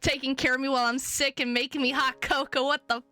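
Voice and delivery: incredulous kidnapper. Acted. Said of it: "He's like".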